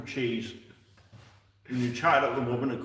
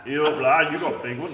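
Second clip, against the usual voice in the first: mock North Yorkshire accent; 2 semitones higher, 4 dB louder than usual. Teasing a friend over their accent, mock North Yorkshire. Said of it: "That's North Yorkshire".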